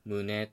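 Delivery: 「胸」 stepping up on the second mora; Tokyo-style accent. Shown as a demonstration. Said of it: "東京式の発音で". (「胸」を尾高の東京式アクセントで)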